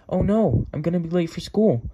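high-pitched, mildly panicked oh no; light acted alarm; acted dismay. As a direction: realize you're late, voice jumping up. Mary wakes up late, alarmed.

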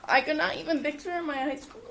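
trying to push through while choking up; choked-up public speaking; emotional. Real, not acted. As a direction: voice catching with real emotion. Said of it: "I don't know why I'm emotional".

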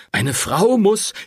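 lecturing priest, cut off. A narrator's reading. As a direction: begin the sermon, slowly.

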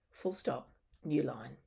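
spoken as a voice command to the computer; dictation command. Shown as a demonstration. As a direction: dictate the punctuation clearly. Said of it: "I'm also gonna say some things that seem a bit odd".

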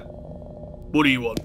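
wary resident. Acted. Wary resident behind a door.

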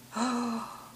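a quick high gasp of wonder; delighted gasp. Real, not acted. Seeing the handmade flowers, a high gasp of delight. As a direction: catch your breath at something lovely. Unboxing crochet gifts, delighted.

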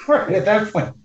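laughing. Real, not acted. Listener laughing at the story.

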